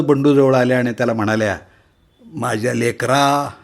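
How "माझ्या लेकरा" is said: mild tearful mother. Acted. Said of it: "मिठी मारून रडू लागल्या".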